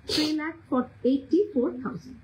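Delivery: "Three lakh", a pause, then "eighty four thousand"; slow, broken into chunks. Shown as a demonstration. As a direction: spell out the price in two slow pieces for latecomers. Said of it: "সেই জন্য আমি আস্তে আস্তে বলছি". (ধীরে ধীরে, ভেঙে ভেঙে দাম বলা)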